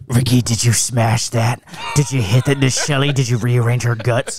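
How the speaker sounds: shouted troll comments. Retold or imitated. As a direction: mimic commenters yelling out nosy questions. Mimicking the trolls' repeated comments.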